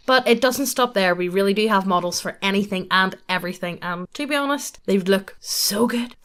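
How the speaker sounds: upbeat sponsor read. Acted. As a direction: sell the website like an ad.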